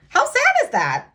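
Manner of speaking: high, loud, heartfelt dismay; upset outcry. Real, not acted. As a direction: cry out how sad it is. Distressed rhetorical outcry over news.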